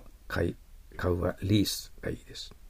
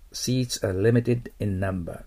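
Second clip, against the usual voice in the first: slow model reading; much slower than usual. Shown as a demonstration. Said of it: "model sentence read slowly".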